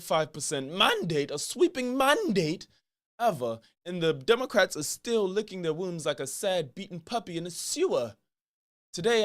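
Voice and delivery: attempted British accent, lightly done, pompous host; a talk-show host's mock British voice, barely shifted; Piers Morgan impression. Host opening his show for a random liberal, in a light British accent. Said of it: "I'ma show y'all my Piers Morgan impression".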